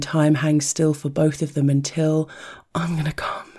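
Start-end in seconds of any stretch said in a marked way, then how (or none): 2.7-3.5 hushed unvoiced whisper. A narrator's reading. Lover telling her he is about to come, whispered. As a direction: let it slip out on a breath. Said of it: "he tells her".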